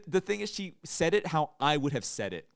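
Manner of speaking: loud, high, through real laughter; laughing while talking. Real, not acted. Friend recalls the waitress's pronunciation, laughing as he talks. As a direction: tell it while cracking up. Laughing over his embarrassing story.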